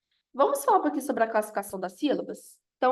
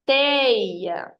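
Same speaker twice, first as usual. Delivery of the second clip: "Teia" with a long, strong TEI; stress on TEI; 4 dB louder than usual. Shown as a demonstration. Teacher isolating the strong syllable, TEI stressed in Teia. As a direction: stretch and push the first syllable of Teia. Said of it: "sílaba mais forte é o tei".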